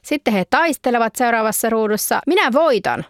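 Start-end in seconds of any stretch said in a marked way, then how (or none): 2.3-3.1 triumphant cry. Acted. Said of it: "sanoo tää meidän karvalakki-hahmo".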